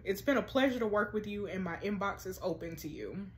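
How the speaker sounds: measured, low and soft reading voice; email read-aloud. A narrator's reading. Therapist writes to Sarah about counseling, measured read-aloud.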